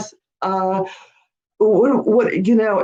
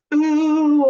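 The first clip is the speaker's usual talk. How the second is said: gasp, then a high ooh; surprised realization; 7 semitones higher than usual. Real, not acted. Host finally understanding Derry's comment, gasping ooh. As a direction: catch on with a gasp.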